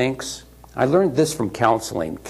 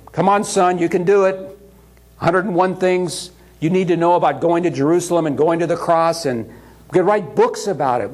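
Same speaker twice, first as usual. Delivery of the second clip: mock pep-talk sermon; 3 semitones higher than usual. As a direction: hype him up like a preachy dad giving a pep talk. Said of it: "The Father could have preached a great sermon to him".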